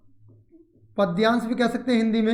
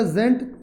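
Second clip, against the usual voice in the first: "जेंट" set apart as the last piece; syllable split off; much slower than usual. Shown as a demonstration. Teacher counts syllables for students, "जेंट" separated out. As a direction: pronounce "जेंट" separately and firmly. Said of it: "तोड़कर बोला जाता है".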